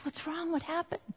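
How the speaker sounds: gently ask, voice lifted and softened; concerned husband. Retold or imitated. Husband kneels by his crying wife, soft concern.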